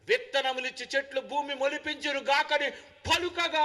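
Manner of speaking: ringing, emphatic scriptural decree; forceful divine command. Acted. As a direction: proclaim it like God commanding creation. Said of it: "ఎంత గట్టిగా పిలిచాడండి".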